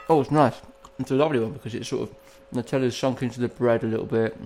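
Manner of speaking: talking while chewing; words round a bite of food; mouth full. Real, not acted. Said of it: "food in my mouth while I've been talking".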